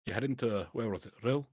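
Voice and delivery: shrewd Scottish dwarf merchant. Acted. Dwarf offers the adventurer rare wine, shrewd Scottish dwarf. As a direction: pitch a rare deal in a Scots dwarf voice. Game master voices dwarf.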